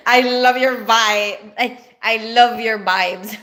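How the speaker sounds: VIBE said with a hard B, as "bibe"; Filipino accent. Shown as a demonstration. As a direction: Filipino B-for-V slip on "vibes", played up. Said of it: "we mix up the B and the V".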